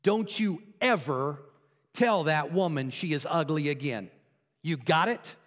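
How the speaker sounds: lightly acted stern warning; measured, broken-up scolding with pauses; stern owner. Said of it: "the owner looks at the bird and says".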